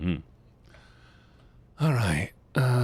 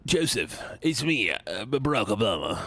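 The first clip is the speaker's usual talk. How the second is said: Barack Obama. Pretend. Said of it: "That's what Barack Obama sounds like".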